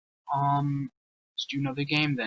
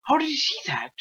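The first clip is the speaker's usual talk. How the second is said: disbelieving; 12 semitones higher, faster than usual. Real, not acted. Baffled watching another player.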